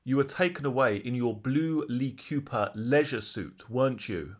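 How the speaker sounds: a hint of the assertive barrister, slowed and deliberate; lightly voiced prosecutor, assertive but subtle; pointed barrister question. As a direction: lean on each word like a cross-examiner closing a trap. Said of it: "that's literally how he phrased it".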